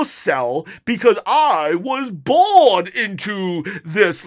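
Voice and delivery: high, loud, slowed mock villain voice; Bane voice. Father as Bane scolding kids over dessert, high and loud. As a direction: play Bane lecturing the kids, slow and booming. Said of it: "so serious about it".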